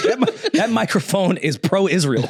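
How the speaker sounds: high, slow, laughing delivery; laughing accusation. Real, not acted. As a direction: crack up while making the joke. Cracking up at own joke.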